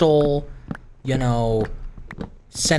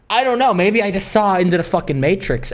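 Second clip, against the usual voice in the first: hammed-up awe; 4 semitones higher than usual. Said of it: "I'm playing it up for the bit".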